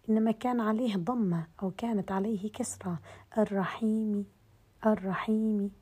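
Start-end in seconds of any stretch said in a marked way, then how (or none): 3.4-5.7 الرحيم with a faint kasra at the end; rawm demo. Shown as a demonstration. Teacher demonstrating rawm with kasra on الرحيم. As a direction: keep only a trace of the final i in الرحيم. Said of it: "بهذا الشكل".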